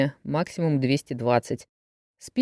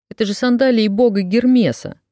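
excited; 7 semitones higher, 6 dB louder than usual. A narrator's reading. Excited discovery of artifact.

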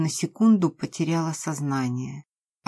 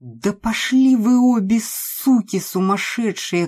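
higher, louder, harsh male yell; angry shout; 5 semitones higher, 4 dB louder than usual. A narrator's reading. Kolya curses both women as he flees, loud. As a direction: curse them and bolt. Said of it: "крикнул Коля".

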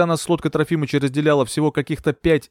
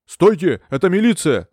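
громкий милицейский окрик; рявкнуть приказ громко; shout; 5 semitones higher, 5 dB louder than usual. A narrator's reading. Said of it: "закричал Лисовский". (милиционер кричит беглецу, громко)

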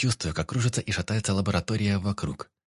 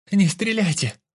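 panicked cry; 12 semitones higher, 6 dB louder, slower than usual. A narrator's reading. Captive begs squad not to shoot.

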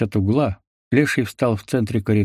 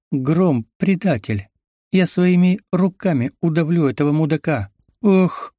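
higher pitched furious outburst; 6 semitones higher than usual. A narrator's reading. Leona rages at the traitor Grom, furious. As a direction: spit out rage at the traitor.

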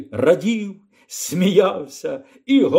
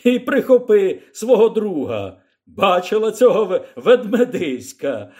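calling out; 5 semitones higher, 3 dB louder than usual. Acted. Texan still calling to Lyra.

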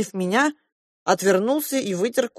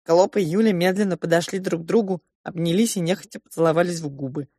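usual speaking voice

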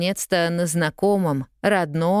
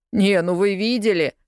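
scornful; 5 semitones higher than usual. A narrator's reading. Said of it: "презрительно хмыкнул парнишка".

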